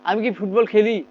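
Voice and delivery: slow, deliberate question on আমি কি football খেলি; slowly modelled question ending on খেলি; questioning expression. Shown as a demonstration. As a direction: really ask it, drawing out খেলি. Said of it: "আমি তো প্রশ্ন করতেছি".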